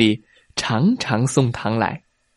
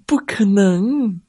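disbelieving whisper; 8 semitones higher, slower than usual. Acted. Animals doubting the fox's boast.

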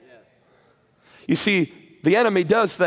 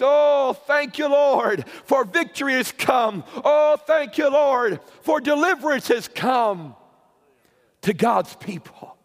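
rejoicing Israelites; 6 semitones higher than usual. Acted.

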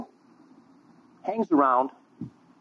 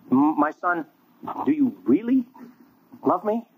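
pleading Jesus; 6 semitones higher than usual. Acted. Jesus asking again louder.

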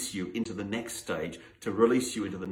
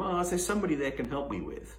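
imitating a receptionist; 5 semitones higher, faster than usual. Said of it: "you've been treated differently".

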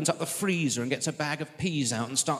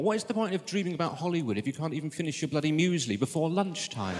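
gossipy friend; 3 semitones higher than usual. Retold or imitated. Friends remark on his calm.

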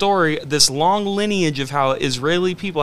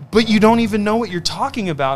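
higher, pushy lecturing tone; mock Pharisee; 5 semitones higher than usual. Himself as a Pharisee lecturing a believer, higher pushy voice. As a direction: play your own know-it-all self, pitch up. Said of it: "my Pharisee heart".

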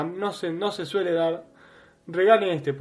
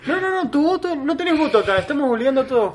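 laughing; 9 semitones higher, 4 dB louder than usual. Real, not acted. Mock dictator banter, laughing.

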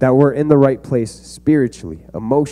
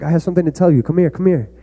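a lightly higher, sweet coaxing call; coaxing uncle; 5 semitones higher, faster than usual. Retold or imitated. Uncle coaxing his nephew Joshim to come close, lightly sweet. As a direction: lure the kid over with a fake-innocent sing-song. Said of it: "And then I'm like".

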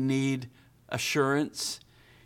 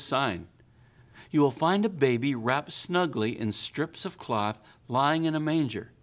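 measured, reverent Bible reading; scripture reading. Acted. Pastor reading the Christmas story to the church, reverent. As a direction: read the passage as a story to the congregation. Reads scripture passage aloud.

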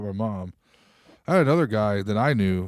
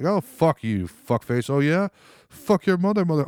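higher-pitched mock tough-guy insults; acting tough; 7 semitones higher, slower than usual. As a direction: trade swears like a would-be tough guy. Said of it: "They try to act tough".

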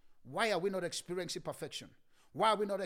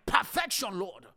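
imitated crying out; 6 dB louder, slower than usual. Preacher mimicking believers' cry for perfection, crying out. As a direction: imitate believers calling out to God. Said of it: "And yet we are crying".

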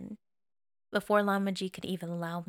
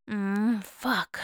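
groan; 3 dB louder than usual. Acted. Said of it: "Wei Wuxian groaned".

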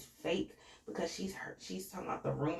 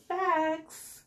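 much higher, louder single word; emphatic agreement; 12 semitones higher, 4 dB louder than usual. Real, not acted. Vlogger backing Robin's point, higher, louder emphatic. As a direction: stamp it as true. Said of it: "agreeing emphatically".

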